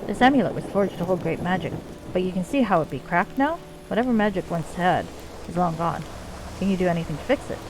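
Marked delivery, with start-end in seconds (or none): 0.1-6.0 put-on lightly done Scottish accent for a dwarf leader; bad Scottish accent. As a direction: play the dwarven chief with a rough-and-ready Scottish accent. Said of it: "my really bad Scottish accent".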